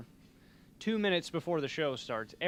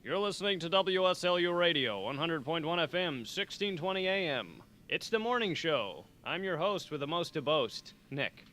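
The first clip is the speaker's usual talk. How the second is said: radio station ident; 2 semitones higher than usual. Real, not acted. Morning host to listeners after a failed recording, radio ident delivery. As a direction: roll out the show's intro like a radio host. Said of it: "let me do that thing that I do".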